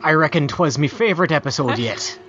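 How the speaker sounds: a hint of an old sailor reading; pirate voice. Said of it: "This one needs to be read in a pirate voice".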